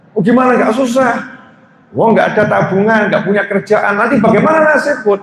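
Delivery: high anxious fretting; wife fretting to husband, high and anxious; worried wife. Retold or imitated. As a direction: fret about the future up high.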